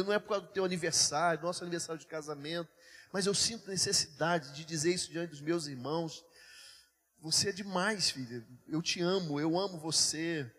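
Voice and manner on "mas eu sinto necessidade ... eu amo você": lower, sincere words of love; real, understated affection; tender declaration. Real, not acted. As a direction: tell your wife you love her, gently. Declares love to his wife.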